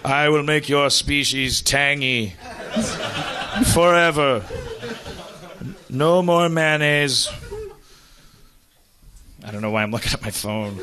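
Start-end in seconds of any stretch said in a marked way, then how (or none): 0.0-7.3 slow, portentous sky apparition; Miracle Whip entity. Acted. Floating head addresses mankind, slow mock-solemn proclamation. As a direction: proclaim with long pauses and stretched words.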